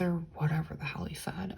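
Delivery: dismissive whisper under her breath; whispered aside. Real, not acted. Telling viewers about the call, whispered aside. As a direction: toss it off in a whisper.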